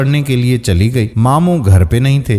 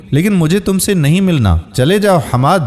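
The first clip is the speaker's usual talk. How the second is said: put-on higher, cold dismissive girl; hateful tone; 6 semitones higher than usual. A narrator's reading. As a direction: push him away with contempt. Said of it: "نفرت انگیز لہجے میں بولی". (نفرت بھرے لہجے میں)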